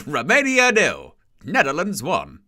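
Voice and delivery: a laughing echo of the PA; stadium announcer. Retold or imitated. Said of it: "stadium announcers are a bit much".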